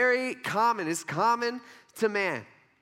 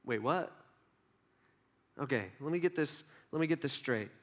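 low, softer double take; puzzled reader; 5 semitones lower, 7 dB quieter than usual. Acted. Reader baffled by the scripture, low and hesitant. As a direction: work it out quietly, confused. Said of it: "read that before and been like".

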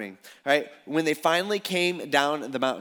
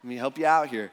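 the look; 3 semitones lower than usual. Retold or imitated. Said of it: "you gotta give 'em the look".

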